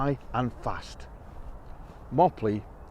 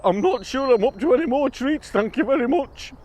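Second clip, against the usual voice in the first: queasy mouse; 11 semitones higher, 5 dB louder than usual. Acted. Mouse declines treat.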